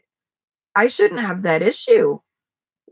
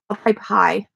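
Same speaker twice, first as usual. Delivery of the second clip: whispered aside to herself; whispering. Real, not acted. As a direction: whisper it while typing. Aside while typing to chat.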